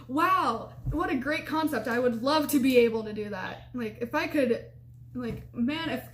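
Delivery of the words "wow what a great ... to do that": mock amazement, pitched up at the start; sarcastic. Panicking girlfriend answering useless advice, sarcastic awe. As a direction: gush with heavy sarcasm.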